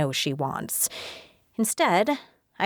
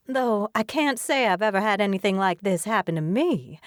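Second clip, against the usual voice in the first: put-on Southern accent; 3 semitones higher than usual. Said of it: "she drawls in a strong Southern accent".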